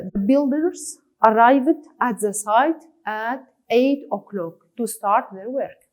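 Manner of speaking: words spaced out slowly; teacher reading an example line slowly. Shown as a demonstration. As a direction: read it slowly, as dictation for the class.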